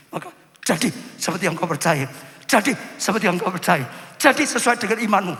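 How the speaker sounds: emphatic command. Acted. Jesus's command quoted, repeated ever louder. (perintah tegas yang makin keras)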